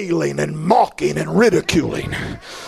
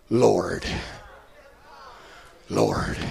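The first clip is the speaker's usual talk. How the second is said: hushed plea; 11 semitones lower, 8 dB quieter than usual. Acted. Dying thief calls on Jesus.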